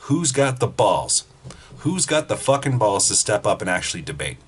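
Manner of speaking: imitating Gavin McInnes daring the protesters to debate; mock challenge yell. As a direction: bark the dare at the crowd. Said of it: "and saying".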